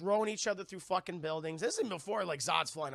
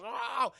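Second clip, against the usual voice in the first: higher drawn-out "oh"; imitated laser roar; 6 semitones higher, 4 dB louder than usual. Streamer acting out laser beams, imitated roar. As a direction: voice the beam blasting out.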